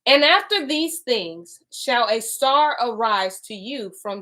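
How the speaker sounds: slow, measured reading aloud; deliberate scripture recital. Acted. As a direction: read the holy text with weight. Reads scripture aloud slowly.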